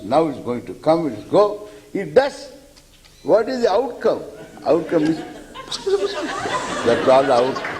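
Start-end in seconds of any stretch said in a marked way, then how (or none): 5.5-6.8 thin high hiss of a fizzling cracker; high, feeble fizz; cracker fizzle. Retold or imitated. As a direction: imitate a firecracker fizzling out.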